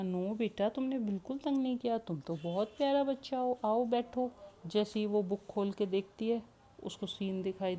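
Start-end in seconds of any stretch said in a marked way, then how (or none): 0.0-4.3 reassuring grandmother. Acted.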